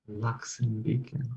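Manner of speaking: soft, slow murmur into an ear; hushed whisper. Acted. Player leans into the master's ear with a secret, hushed. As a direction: confide it slowly and quietly. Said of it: "whisper in his ear".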